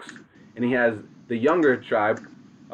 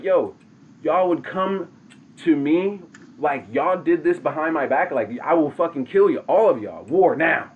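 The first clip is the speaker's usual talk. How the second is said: retold angry threat; 3 semitones higher than usual. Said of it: "Tadaho gets mad as fuck".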